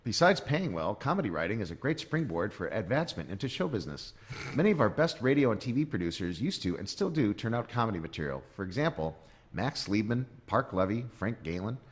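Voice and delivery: put-on lilting, measured recital of an old guide; read-aloud pamphlet voice. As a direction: read it out like dated promotional copy.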